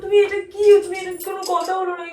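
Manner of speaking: distressed disbelief; upset protest. Real, not acted. Wife protests at husband's coldness.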